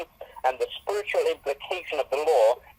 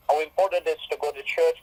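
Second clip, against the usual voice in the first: rattles off the phrase faster; faster repeat; faster than usual. Shown as a demonstration. Preacher repeating church slogan to congregation, faster. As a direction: hurry through it like a slogan.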